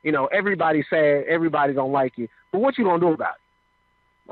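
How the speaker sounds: voice of God. Retold or imitated. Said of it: "I hear this voice".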